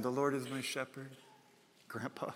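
soft, lightly voiced toddler; a touch of a little girl reciting; preschooler. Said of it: "there's my granddaughter".

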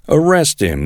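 king of Israel orders guards to seize the prophet, commanding; ordering. Acted. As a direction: snap out the arrest order. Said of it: "the king of Israel ordered".

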